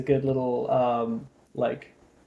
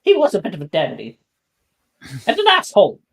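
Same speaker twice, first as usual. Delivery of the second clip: lightly voiced prim old owl; a hint of a haughty old owl; fussy old owl; 4 semitones higher, 3 dB louder than usual. Owl complains of Merlin.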